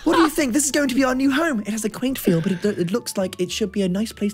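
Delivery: lilting British mum, starting high with a laugh; put-on British motherly voice. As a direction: play a typical British mother chatting to the kids. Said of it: "my typical British mother voice".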